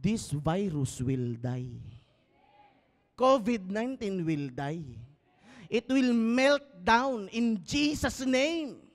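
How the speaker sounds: solemn rebuke. Acted. Pastor rebuking covid nineteen in prayerlike command, slow. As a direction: pronounce the virus dead.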